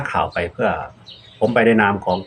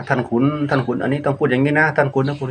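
Southern Thai demo; 4 semitones higher than usual. Retold or imitated.

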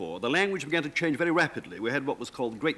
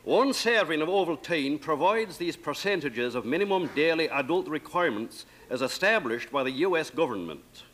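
put-on label read in a light Elizabethan accent; Elizabethan English. On request, reading the Ovaltine label in light Elizabethan English. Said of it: "the Ovaltine label in Elizabethan English".

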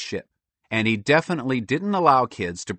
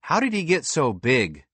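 put-on high, mildly worried boy; a touch of nerves; nervous wondering; 5 semitones higher than usual. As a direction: wonder uneasily, pitched up. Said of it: "Justin wondered nervously".

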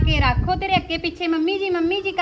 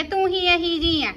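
tearful reproach; slower than usual. Acted. Daughter blaming her mother.

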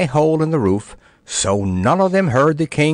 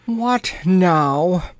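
gasped; 6 semitones higher than usual. Acted. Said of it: "gasped the poor lady".

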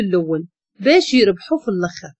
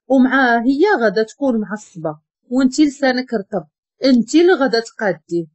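ordinary delivery

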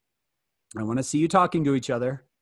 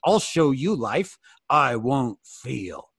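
hardened defiance; 2 semitones lower, much slower than usual. Acted. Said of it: "It's our way of saying".

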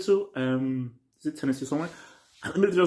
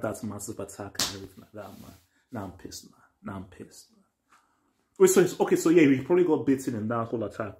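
muttered under breath; 4 semitones lower, 5 dB quieter than usual. Real, not acted. Annoyed viewer muttering after episode.

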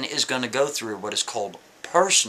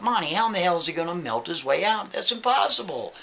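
quick, rising disbelief in an imagined listener; doubting listener; 4 semitones higher than usual. Retold or imitated. An imagined listener asks Monty in quick rising disbelief. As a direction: scoff that it can't be done, pitch climbing. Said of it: "you might say to yourself".

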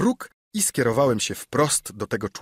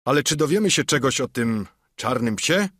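speaking up. Acted. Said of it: "głośno mówił dalej".

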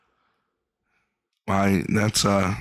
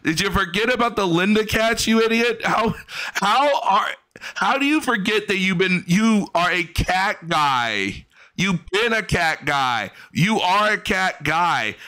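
mocking incredulity; 6 semitones higher than usual. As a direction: rib him for forgetting the cats. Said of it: "You're like".

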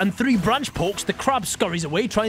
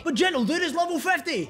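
high nagging voice; squeaky heckler; 8 semitones higher than usual. Acted. Heckler voice interrupts.

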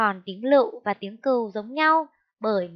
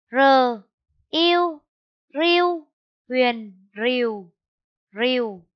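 spelling out again; 3 dB louder, slower than usual. Shown as a demonstration. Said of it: "Cô đánh vần lại nhé".

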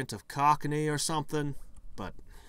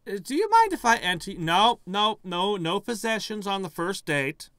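flustered refusal; 9 semitones higher, 10 dB louder than usual. Acted. Acts out refusing a ghost's possession.

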